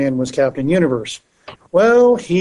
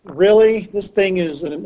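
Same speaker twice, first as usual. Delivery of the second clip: incredulous; 5 semitones higher, slower than usual. Retold or imitated. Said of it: "I was like".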